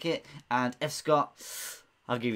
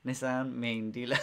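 attempted South African accent. Quiz host trying out a viewer's joke phrase, South African accent. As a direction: try it with a South African lilt. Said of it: "how you say it in the South African accent".

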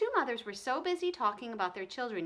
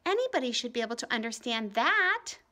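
put-on upset girl; 5 semitones higher, 6 dB louder than usual. A narrator's reading. Ramona pleads.

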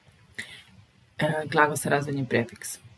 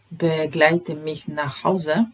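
slow model reading; slower than usual. Shown as a demonstration. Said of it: "Broj trinaest".

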